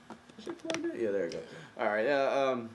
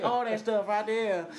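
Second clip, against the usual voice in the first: mock East Asian accent, high pitched; 12 semitones higher, 3 dB louder, slower than usual. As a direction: imitate a nail salon accent, slow. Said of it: "He sound like Asian now".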